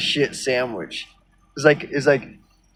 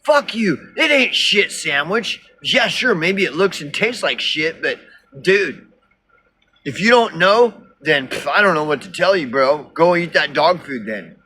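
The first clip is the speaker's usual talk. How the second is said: higher, hammed-up indignant rant; mock angry BitChuter; 4 semitones higher than usual. Imitating angry BitChuters cursing him out, mock outrage. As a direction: play an outraged fan, half-mocking. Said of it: "they all just get".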